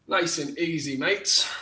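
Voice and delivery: lightly put-on Australian accent; playful hint of an Australian accent; Aussie accent. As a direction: slip into a casual Aussie accent. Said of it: "Don't know where that accent came from".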